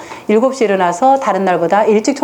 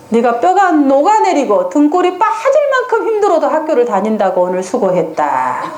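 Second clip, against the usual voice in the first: empathetic praise; 4 semitones higher than usual. Shown as a demonstration. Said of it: "어떻게 공감해야 될까요?".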